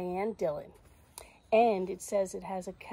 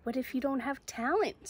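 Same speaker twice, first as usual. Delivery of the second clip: higher, questioning naysayer; little doubting voice; 5 semitones higher than usual. Acted. Little voice questioning Zoe's talent, doubting. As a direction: raise the doubt as a nagging question. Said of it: "says the voice".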